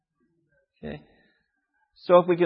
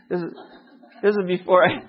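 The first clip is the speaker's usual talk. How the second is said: laughing while starting to explain. Real, not acted. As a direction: chuckle through the words. Breaks up over his own story.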